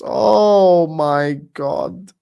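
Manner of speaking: drawn-out crying groan of despair; despairing wail. Real, not acted. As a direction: stretch it out like it physically hurts. Despairing over the transfer news.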